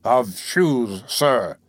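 heavy, deliberate emphasis on "shoes"; emphatic correction. A narrator's reading. Giles correcting the tinker, great emphasis on "shoes". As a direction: lean pointedly on "shoes", drawing it out. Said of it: "laying great emphasis on the word".

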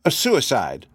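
lightly voiced professor, halting and musing; hesitant professor. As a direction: offer a theory with small hesitations, lightly in character.

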